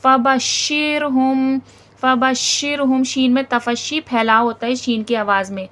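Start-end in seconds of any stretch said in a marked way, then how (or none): 0.0-3.0 very slow, measured chant; drawn-out tajweed chant; Quranic recitation. Shown as a demonstration. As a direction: recite slowly, giving each letter its due. Teacher recites the verse.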